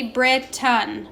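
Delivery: BRITAIN split as Brit-tun, lazy uh ending; schwa sound. Shown as a demonstration. Teacher lets students hear the lazy schwa in Britain, sounded out. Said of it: "making that schwa sound".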